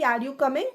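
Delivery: yes-no question rising on "coming"; "coming" tipped upward as a question; rising intonation. Shown as a demonstration. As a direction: lift the pitch at the end of "coming". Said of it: "कमिंग वाले में क्या हुआ कि ऊपर चला गया".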